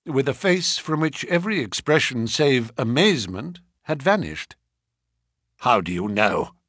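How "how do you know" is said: gasped. Acted. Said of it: "he gasped".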